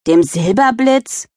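slow, sneering question; mild teenage scoff; scornful snort. Acted. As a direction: scoff at her sister's coaster. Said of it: "schnaubte Tiffany".

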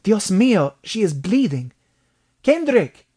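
put-on high, loud Mexican-accented cry; urgent bellow rising to a high shout; alarmed bellow. A narrator's reading. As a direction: call out in alarm at the blood. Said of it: "he bellowed".

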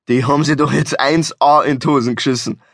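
understated gloating; gleeful. Acted. Driver delights in having scared the tailgaters, mild glee. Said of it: "freute sich Hans".

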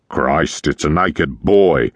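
a mild hint of a gruff old captain's cry; booming captain. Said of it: "cried a fat, one-eared chap ... the boom in his voice".

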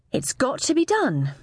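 emphatic spoken-aloud resolve. A narrator's reading. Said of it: "she said aloud this time".

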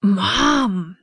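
high, pleading moan; pained whine.

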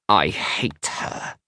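put-on slow, small child's quaver; small, trembly voice. A narrator's reading. Scowling Isla about her sister, small trembly voice. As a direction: say it tiny and trembling. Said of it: "in a small, trembly voice".

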